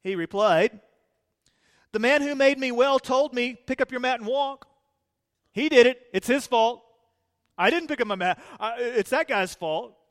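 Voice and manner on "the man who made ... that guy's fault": defensive blame. Pretend. Healed man blaming Jesus.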